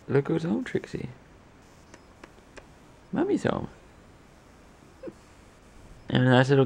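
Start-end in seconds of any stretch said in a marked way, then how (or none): 0.1-3.7 high cooing greeting; welcoming someone home. Real, not acted. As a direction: coo hello to the dog. Greeting dog on arrival.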